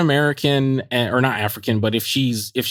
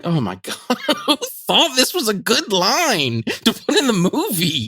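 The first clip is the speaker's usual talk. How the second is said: laughing disbelief; 10 semitones higher than usual. Retold or imitated. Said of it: "And I'm like".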